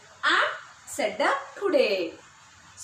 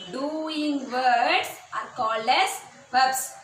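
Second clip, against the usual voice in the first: slow drill repetition; slower than usual. Shown as a demonstration. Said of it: "teacher repeats the rule slowly".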